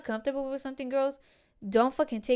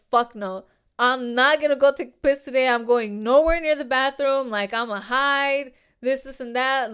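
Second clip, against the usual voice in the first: louder, half-shouted quoting of herself; replaying her own heated no, voice raised; retold loud refusal; 2 semitones higher, 7 dB louder than usual. Telling coworkers she won't go near him, raised voice.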